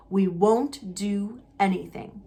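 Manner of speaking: slow conspiratorial whisper. Acted. Husband whispering the plan to his wife, slow and secret. Vernon plotting under his breath.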